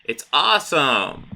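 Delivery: gleeful Joker. Retold or imitated. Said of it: "And then Joker's like".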